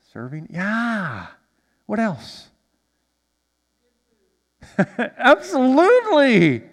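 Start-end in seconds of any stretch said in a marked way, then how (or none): 5.0-6.6 loud, high, drawn-out whoop of agreement; delighted exclamation. Real, not acted. Pastor cheering a congregation member's answer, delighted. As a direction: stretch it out big after a laugh.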